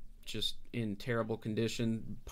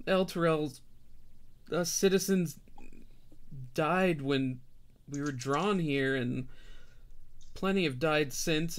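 weary refugee mother; 3 semitones higher than usual. Acted. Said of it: "so Harkina says".

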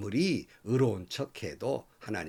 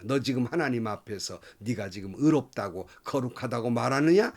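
stern scolding question; rebuking. Retold or imitated. Friends rebuking Job before God, mild stern scolding. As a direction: scold him for claiming righteousness. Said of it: "이렇게 질책을 한 거예요".

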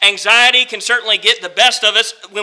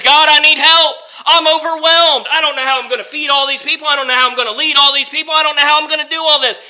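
anxious outcry; 5 semitones higher, faster than usual. Acted. Preacher voicing Moses crying out to God, anxious and rushed. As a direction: cry out to God, overwhelmed and hurried.

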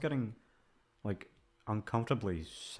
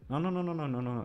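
emphatic no; 8 semitones higher, 6 dB louder, faster than usual. Real, not acted. Loud correction of self.

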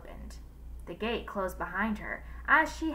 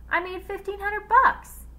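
high, louder, gleeful brag; excited boast; 12 semitones higher, 8 dB louder than usual. A narrator's reading. Wife tells her husband about her earnings, excited boast. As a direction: crow about the money.

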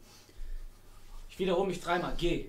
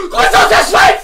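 "Grüße aus der Schweiz!" squeaked out much higher and louder, stress on "aus"; high squeaky greeting; 12 semitones higher, 4 dB louder, slower than usual. Shown as a demonstration. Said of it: "Von Investor Mann Bruce aus der Schweiz". ("Grüße aus der Schweiz!" quietschig hoch, Betonung auf "aus")

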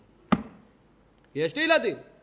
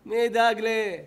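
louder, sharper repeat of ידאג; louder repeated question; louder demand; 3 semitones higher, 5 dB louder than usual. Shown as a demonstration. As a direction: press the word ידאג harder. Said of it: "repeated question".

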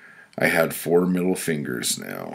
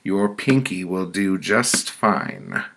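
stern pronouncement, pitched up; higher-voiced woman passing judgment; committee woman; 4 semitones higher than usual. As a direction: hand down the verdict as the judging woman. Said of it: "A woman with white curly hair spoke".

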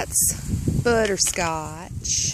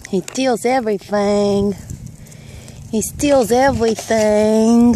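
scolding; 4 dB louder than usual. Real, not acted. Woman scolds the greedy goat that steals everything. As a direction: tell off the bully goat.

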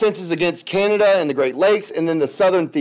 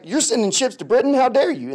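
higher-pitched mock outrage; indignant French, mildly played; mock indignation; 6 semitones higher than usual. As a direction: act lightly affronted, pitch lifted. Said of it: "the French get mad".

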